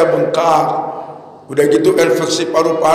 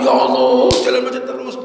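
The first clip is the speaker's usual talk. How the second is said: higher-pitched exasperated complaint; mild, pitched-up fuming; mock grumbling anger; 4 semitones higher than usual. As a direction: act out an irritated driver without raising the volume. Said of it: "Tapi marah-marah".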